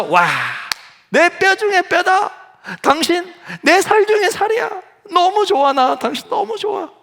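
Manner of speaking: high, drawn-out gush of adoration; hammed-up delight. Adam delighted at first seeing Eve. (감탄에 찬 높은 목소리로 과장되게)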